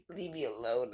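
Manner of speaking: half-laughing mock sulk.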